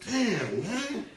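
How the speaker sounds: retold outburst, climbing high and loud with laughter; mock exasperation. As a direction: build to a loud, laughing scolding at the TV. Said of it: "I'll be mad about this shit".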